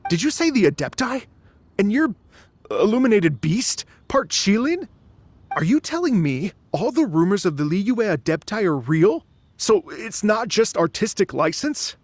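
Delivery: can't believe what he's hearing; astonished. Acted. Dvorak to Ganyu on learning she's part Qilin, astonished.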